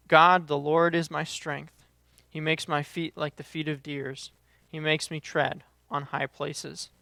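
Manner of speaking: measured reading, phrase by phrase; scripture reading. Acted. Preacher reading the fig tree verses to the church, measured scripture reading. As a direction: read the verses out deliberately, with pauses.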